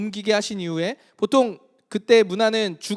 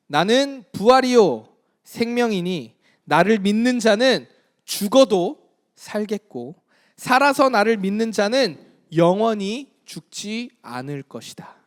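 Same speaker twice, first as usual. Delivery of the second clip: slow, weighty declaration, a touch raised; solemn Jesus; slower than usual. Acted. Jesus declaring resurrection to Martha, slow and solemn. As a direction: proclaim each phrase slowly like Jesus.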